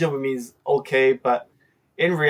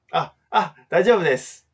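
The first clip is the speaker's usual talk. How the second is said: polite hesitant refusal; 3 semitones higher, faster than usual. Shown as a demonstration.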